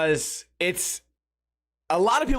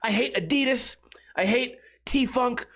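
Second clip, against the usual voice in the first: angry rant; 3 semitones higher than usual. Retold or imitated. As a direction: whine and rage like a hater. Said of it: "They think that I wake up every day and I go".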